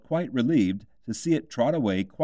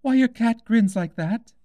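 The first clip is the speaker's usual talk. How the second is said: put-on high, bright girl's voice, asking politely; young Alice, curious; 13 semitones higher, 6 dB louder than usual. A narrator's reading. Alice asks the Duchess about the cat, in a high girlish voice. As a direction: lift into a little girl's voice, puzzled.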